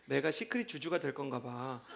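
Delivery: put-on soft, slow, dreamy child confiding in dad; hushed, earnest little-kid announcement, lightly voiced; little daughter. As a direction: gently imitate a daughter sharing her dream. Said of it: "우리 집에 있는 둘째 딸 연희가".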